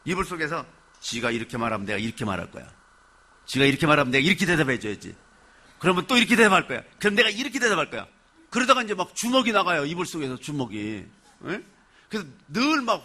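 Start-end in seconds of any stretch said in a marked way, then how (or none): 1.0-8.1 rapid, building mock quarrel; acted imaginary argument. Preacher acts out someone fighting alone under the blanket, mock arguing. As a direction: rehearse comebacks in a fast, rising rush. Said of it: "이불 속에서 많이 싸운대요".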